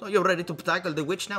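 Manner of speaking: strange put-on, vaguely Russian accent. Reading a game character's line aloud, in an odd Russian-sounding accent. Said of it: "What is that accent?".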